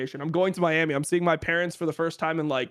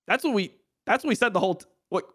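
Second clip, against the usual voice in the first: exasperated disbelief; 7 semitones higher than usual. Retold or imitated. Exasperated retort to Riot.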